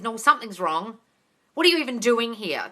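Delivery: mildly confrontational, pitch nudged up; retold aggressive. Coach replays how her breakup went, mildly aggressive. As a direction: press them with a mock accusation. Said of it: "didn't say it in an aggressive way".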